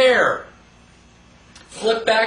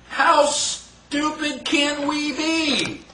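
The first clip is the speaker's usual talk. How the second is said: higher, very slow incredulous question; exasperated; 5 semitones higher, much slower than usual. Real, not acted. Lecturer scolding audience about FDR, exasperated and slow. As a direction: drag it out in disbelief.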